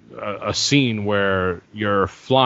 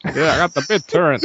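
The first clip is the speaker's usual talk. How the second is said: mock excited poster; 5 semitones higher, faster than usual.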